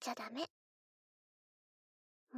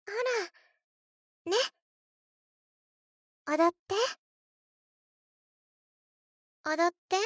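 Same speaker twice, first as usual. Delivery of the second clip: insistent command; 4 semitones higher, 5 dB louder, faster than usual. Acted. Demanding the doll dance.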